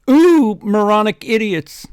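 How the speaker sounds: mock villain sneer. Friend voicing the Dark Lord in a fanfic, hammy villain sneer. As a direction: sneer it like a cartoon baddie.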